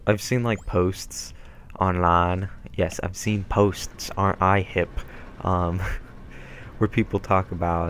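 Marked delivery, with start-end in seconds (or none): 5.9-6.7 short, soft, breathy laugh; quick voiceless laugh at own joke; brief chuckle. Real, not acted. Gamer after calling themselves hip, soft chuckle.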